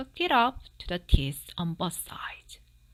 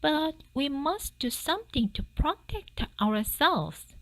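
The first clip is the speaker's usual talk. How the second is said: higher, pleading wife's voice; wife pleading with her husband; worried wife; 8 semitones higher, 3 dB louder than usual. Acted. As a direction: urge him in a raised, anxious voice. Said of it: "said his wife".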